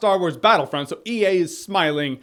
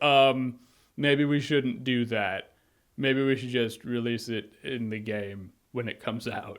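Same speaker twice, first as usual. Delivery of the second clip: much softer, lower, slow hesitant mock; sheepish corporate voice; 7 semitones lower, 6 dB quieter than usual. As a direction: mumble like a caught-out company. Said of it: "EA would ... be like".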